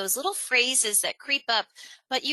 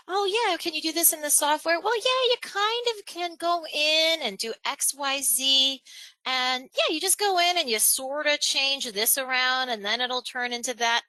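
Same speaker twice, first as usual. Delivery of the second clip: higher-pitched, casual hedging; non-committal; 5 semitones higher than usual. Acted. Software consultant answering a client, breezily non-committal. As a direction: toss it off like a wishy-washy consultant. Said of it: "that is the most non-committal verbiage".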